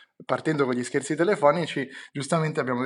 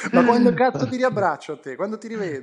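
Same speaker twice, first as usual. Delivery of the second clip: excited; 6 semitones higher, 4 dB louder than usual. Real, not acted. Friends teasing on a call.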